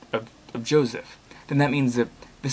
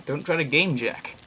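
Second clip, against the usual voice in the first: slow warning; 3 semitones higher, slower than usual. Real, not acted.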